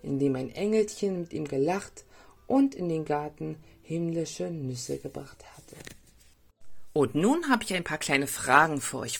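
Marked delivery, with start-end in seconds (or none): 0.0-5.8 put-on lively storytelling for small children; story narration. A narrator's reading. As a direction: read a gentle tale with playful lifts on key words. (Märchen für Kinder vorlesen)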